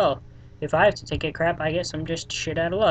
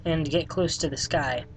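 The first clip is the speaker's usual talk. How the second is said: slow hint reading; 4 dB quieter than usual. Shown as a demonstration. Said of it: "reading out the hint clues".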